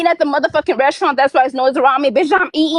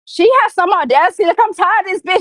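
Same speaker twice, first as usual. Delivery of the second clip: fed-up, higher-pitched rant; worked-up anger; 4 semitones higher than usual. Real, not acted. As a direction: vent in real exasperation, pitch raised. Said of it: "don't let her run your blood pressure up".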